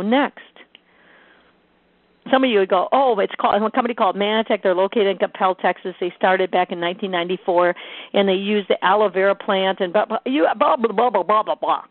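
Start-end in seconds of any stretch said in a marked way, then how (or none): 2.9-4.6 mock long-winded answer, quick run-on delivery; going on and on. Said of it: "go on and on". 4.6-11.8 mock rambling that dissolves into babbled blahs; going on and on. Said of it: "go on and on".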